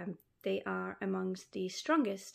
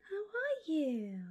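crying a little; 10 semitones higher, slower than usual. Real, not acted. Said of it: "I'm crying a little bit".

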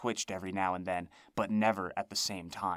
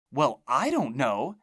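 cried out; 4 semitones higher, 6 dB louder, slower than usual. A narrator's reading. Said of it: "she cried".

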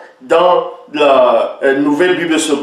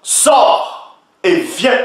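slow command; 2 semitones higher, much slower than usual. Acted. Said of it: "il est dit".

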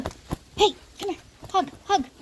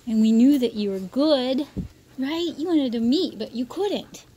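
talking to the dog; 4 semitones higher, 7 dB louder than usual. Real, not acted.

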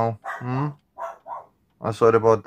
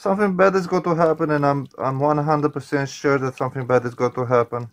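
a little panicked; 3 semitones higher than usual. Real, not acted. Player sure something bad is coming, a little panicked. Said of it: "I'm a little bit scared".

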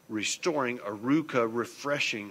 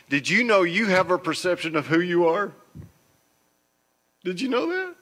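loud challenge; 7 semitones higher, 8 dB louder than usual. Acted. Emphatic rising question to congregation.

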